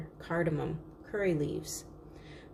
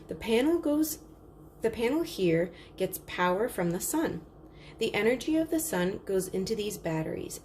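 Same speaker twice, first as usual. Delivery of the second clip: a hint of a market seller explaining; easy sales pitch, a touch raised; lightly voiced salesman. Salesman explains solar lamps to the crowd, lightly voiced.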